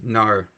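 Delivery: "nar" with an Australian r-coloured ending; Australian-style "nar". Shown as a demonstration. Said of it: "you know, instead of no".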